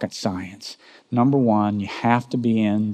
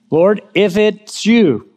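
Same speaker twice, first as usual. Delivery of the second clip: eager Peter; 8 semitones higher, 4 dB louder, slower than usual. Acted. Peter voiced in retelling.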